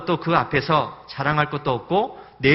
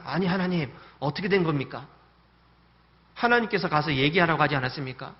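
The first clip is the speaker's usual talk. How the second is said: protesting prayer; 3 semitones higher, 3 dB louder than usual. Retold or imitated. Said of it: "따지듯이 지금 기도를 하고".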